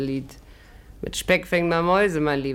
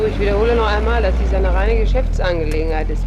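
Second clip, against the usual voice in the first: firm insistence; 3 semitones higher, 6 dB louder, faster than usual. Acted. She insists it's only business.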